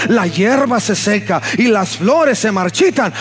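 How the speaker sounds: fervent scripture proclamation; impassioned preaching. Acted. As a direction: declaim scripture with steady fervour.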